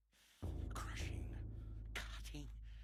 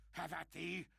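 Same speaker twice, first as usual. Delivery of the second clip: defiant challenge; 5 semitones higher, faster than usual. Acted. Madman challenges imagined beast.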